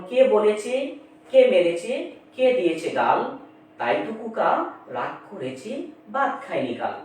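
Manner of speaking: rhythmic nursery rhyme recitation, beat on each কে; rhyme recital. Shown as a demonstration. Teacher reciting the example rhyme to viewers in rhythmic chant.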